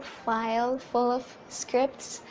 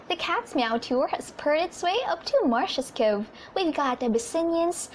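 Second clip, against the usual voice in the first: put-on bright little announcer voice for girls; lightly raised, girlish ad read; small high-pitched voice; 3 semitones higher than usual. Shown as a demonstration. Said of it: "I have to make my voice smaller, a bit high-pitched".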